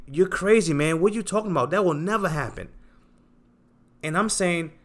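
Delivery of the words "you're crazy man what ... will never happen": higher, scoffing critic; dismissive doubter, voice raised; mocking the doubters. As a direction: toss it off like a scornful skeptic. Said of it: "They would say".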